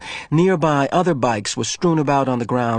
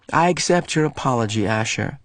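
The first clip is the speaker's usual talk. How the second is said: put-on boy wearily accepting apology; weary. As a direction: give in tiredly. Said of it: "he said wearily".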